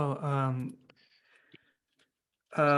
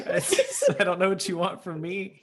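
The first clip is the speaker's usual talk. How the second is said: laughing in character. Acted. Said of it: "he's too deep in character".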